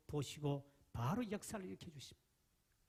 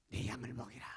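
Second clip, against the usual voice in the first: whisper; 4 semitones lower than usual. Acted. Jesus' words whispered.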